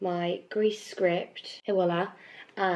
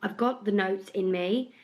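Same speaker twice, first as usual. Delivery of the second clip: worn, slightly bunged-up voice; tired voice. Real, not acted. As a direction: speak with a tired, stuffy throat. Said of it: "really tired voice".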